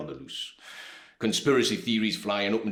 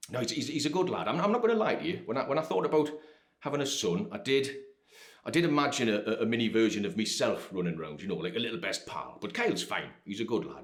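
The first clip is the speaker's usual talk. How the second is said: higher, stammering insistence; defensive father; 4 semitones higher than usual. Acted. Father insisting his son is a good lad, flustered and higher. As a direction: stumble over the words defending your boy.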